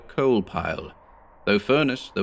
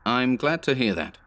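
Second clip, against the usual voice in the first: sarcastic; 5 semitones higher than usual. Acted. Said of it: "I replied sarcastically".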